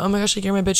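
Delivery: light, friendly teasing; playful, affectionate tease; playful bitch. Retold or imitated. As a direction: say it like a fond joke between girlfriends. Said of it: "But it's not like a".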